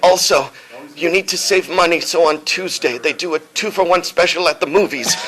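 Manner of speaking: high-pitched, strained dying voice; dying demon general. Acted. Dying general giving money tips, high hammed-up voice. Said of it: "he's like, "Also".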